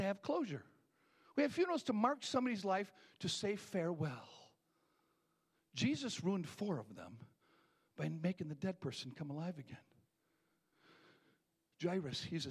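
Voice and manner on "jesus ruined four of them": slowed down, each word weighed; a slower, measured retelling; slow deliberate restatement. Shown as a demonstration. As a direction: lay the words down slowly. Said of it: "Let me say that again".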